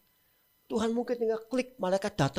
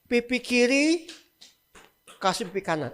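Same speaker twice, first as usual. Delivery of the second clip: slow, deliberate; 2 semitones higher than usual. Shown as a demonstration. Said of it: "Masuk akal nggak?".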